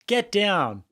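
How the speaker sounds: exasperated pretend yell; mock urgent command. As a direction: act out ordering your wife to take cover. Acts husband ordering chanting wife down.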